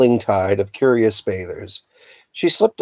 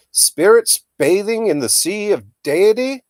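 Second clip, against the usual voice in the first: grand bellow; 11 semitones higher than usual. A narrator's reading. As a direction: proclaim it like a mad prophet. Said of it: "he bellowed at Mister Preak".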